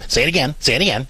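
quick mock nagging parent; half-acted impatient drilling; mean, badgering. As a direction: rattle it off like a pestering demand. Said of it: "you're not being mean through this".

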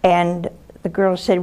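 normal talking voice

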